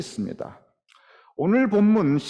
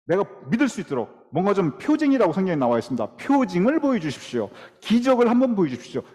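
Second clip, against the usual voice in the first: a touch of testy demanding; mock temper; 2 semitones higher than usual. Gideon pressing God for a sign, mildly irritated and insistent. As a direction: push God for a sign, half-annoyed. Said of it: "하나님 앞에서 그 성질 다 부리고 있습니다".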